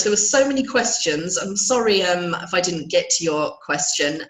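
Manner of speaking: hoarse, croaky throat. Real, not acted. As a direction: talk through a sore, croaky throat. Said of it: "I'm so sorry for my croaky voice".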